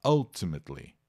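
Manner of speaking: ultimately said as al-ti-met-li; ultimately with a schwa start and falling tune; teacher modelling ultimately; model pronunciation. Shown as a demonstration. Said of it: "É um schwa ali".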